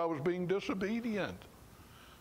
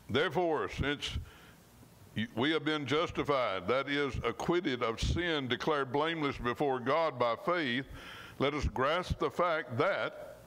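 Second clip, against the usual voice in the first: scripture reading. Acted. Preacher reading Romans to his congregation, measured and earnest. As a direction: lean on each phrase as you read the verse.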